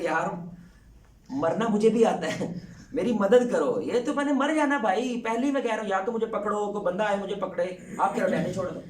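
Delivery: hanging man's panicked plea; desperate pleading. Retold or imitated. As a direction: beg for rescue in a panic. Man hanging from branch pleading.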